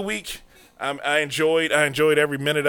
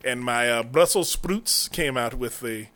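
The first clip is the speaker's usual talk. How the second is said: put-on Southern American accent. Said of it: "sounds like you're saying Simone".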